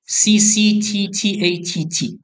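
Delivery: letters spelled out slowly, one by one; slow spelling out. Shown as a demonstration. Teacher reading the sequence off the screen to students, slow and spelled out. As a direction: read each letter out deliberately for the class.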